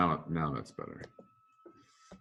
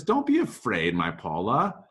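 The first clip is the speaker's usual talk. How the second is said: reassuring groom; 4 semitones higher, 4 dB louder, slower than usual. Acted. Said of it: "and he says".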